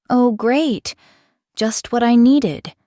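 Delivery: high, loud sarcastic delivery; loud, drawn-out mock gratitude; dripping sarcasm. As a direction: lay the sarcasm on thick. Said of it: "her tone dripping with sarcasm".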